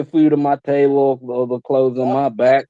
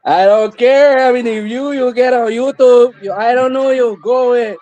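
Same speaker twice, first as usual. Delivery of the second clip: put-on grumpy old man voice; 8 semitones higher than usual. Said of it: "Papa come out of nowhere".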